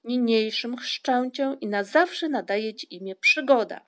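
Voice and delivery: loud ceremonial naming; formal, emphatic declaration; solemn proclamation. A narrator's reading. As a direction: proclaim it like a christening. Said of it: "powiedziała uroczyste słowa".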